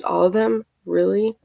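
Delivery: lightly incredulous echo, rising at the end; disbelieving question. Retold or imitated. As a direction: question it as if doubting every word. Questioning the texted reply in disbelief.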